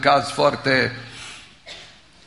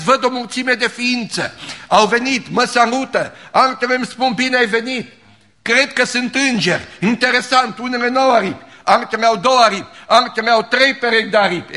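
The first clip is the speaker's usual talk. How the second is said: awed description; 9 semitones higher, 5 dB louder than usual. Retold or imitated. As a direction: paint the angels in wonder. Dying woman describes the angels.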